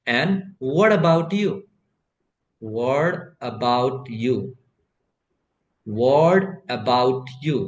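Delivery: "And what about you" with the t of "what" flapped into "about"; slow linked. Shown as a demonstration. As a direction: link "whatabout" slowly. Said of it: "इसको जो आप कीजिएगा pronounce".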